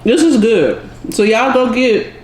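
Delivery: talking with a mouth full; words round a bite of food. Real, not acted. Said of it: "talking with my mouth full".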